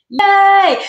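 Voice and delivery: high, loud little cheer of joy; excited cheer. Real, not acted. Tarot reader cheering for a viewer, delighted. Celebrating a viewer's good news.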